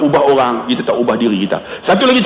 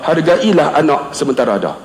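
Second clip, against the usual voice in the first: low tone; 6 semitones lower than usual. Retold or imitated. Principal advising the ustaz, low tone. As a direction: bring the voice right down, unhurried. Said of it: "dia nada rendah".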